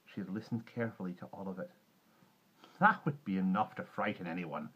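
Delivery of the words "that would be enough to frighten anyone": firmly voiced, warm comfort; warm reassurance. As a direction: reassure a frightened child warmly. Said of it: "she said warmly".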